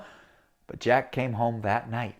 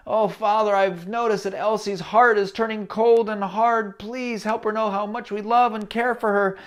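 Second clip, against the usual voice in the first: higher earnest prayer voice; father praying; 6 semitones higher than usual. Acted. Father praying that Elsie's cold heart softens, earnest. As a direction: pray for her tenderly. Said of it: "prayed for Elsie".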